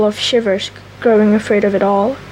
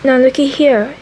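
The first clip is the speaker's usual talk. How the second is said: gruff convict voice; 3 semitones higher than usual. Shown as a demonstration. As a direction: bark it like a threatening convict. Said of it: "I mean".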